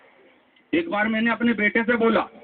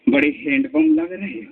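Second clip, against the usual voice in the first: wife calling out; 5 semitones higher than usual. Acted. Wife calls out from behind.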